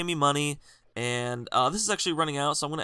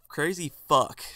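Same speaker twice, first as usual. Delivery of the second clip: muttered insult; slower than usual. Retold or imitated. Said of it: "I said it loud enough".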